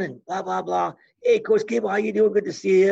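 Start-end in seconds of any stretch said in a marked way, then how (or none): 1.2-2.9 high, bright mock welcome to the coach; a hint of a buddy-buddy host; chummy greeting. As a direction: schmooze the coach. Weaver greeting Gable, mimicked.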